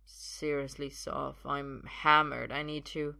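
lightly voiced tipsy man; mildly woozy pleading; drunken protest. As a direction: protest as if a bit hammered. Drunk Arthur protests to Sophia.

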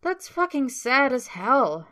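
mocking. A narrator's reading. Tyler mocking Patrick's answer.

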